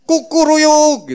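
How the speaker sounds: high, slow mock cock-a-doodle-doo; the rooster preaching to Peter, crowing. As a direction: crow like the rooster. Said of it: "Petrus dikotbahi sama ayam".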